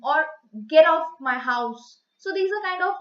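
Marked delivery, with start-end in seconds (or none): 0.7-2.0 slow, louder, lower-pitched order; angry command. Shown as a demonstration. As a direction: deliver a firm, mildly angry command. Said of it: "they are spoken out due to anger".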